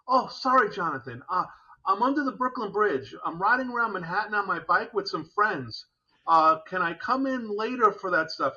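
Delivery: breathless, cheerful and loud; a winded veteran calling from his bike; excited. Retold or imitated.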